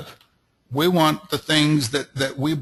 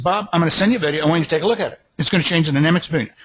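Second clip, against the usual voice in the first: confident statement; much faster than usual. Shown as a demonstration. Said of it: "I said it that way".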